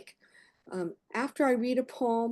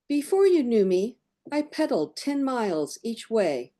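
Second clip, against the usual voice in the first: measured poem recital with pauses between phrases; poetry reading. Acted. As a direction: read it as verse, phrase by phrase, each ending falling. Reads own poem aloud.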